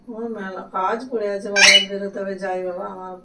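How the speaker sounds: broken voice. Real, not acted. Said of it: "ভাঙা গলা বেরোচ্ছে".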